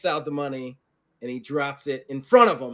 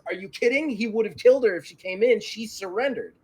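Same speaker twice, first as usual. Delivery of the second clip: heated, higher-pitched retort; indignant argument; 6 semitones higher than usual. Acted. A Klingon disputes who won the fight, indignant. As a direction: argue it with mild exasperation. Klingon argues with human bystander.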